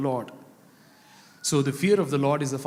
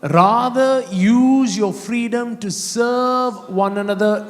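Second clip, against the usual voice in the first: loud start, slowing to drawn-out words; fervent scripture preaching; 5 semitones higher, 6 dB louder, much slower than usual. Acted. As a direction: declaim it slowly to the congregation.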